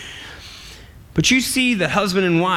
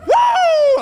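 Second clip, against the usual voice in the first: much higher, loud wrestler whoop through a laugh; Ric Flair woo; 7 dB louder than usual. Acted. Adam waking up and seeing the woman, Ric Flair whoop. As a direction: let out a wild showman's whoop. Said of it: "Like a Ric Flair moment".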